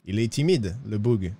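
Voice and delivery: put-on low-pitched, heavily accented French; marked accent in French. Stranger in Valentine joking about a shy local, accented French. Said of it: "J'aime beaucoup votre accent".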